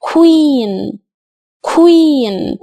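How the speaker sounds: queen with a clear kw and long ee; pronunciation demo. Shown as a demonstration. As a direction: model queen slowly. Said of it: "فنقول هنا إيه؟". (queen بصوت كوا و إي طويلة)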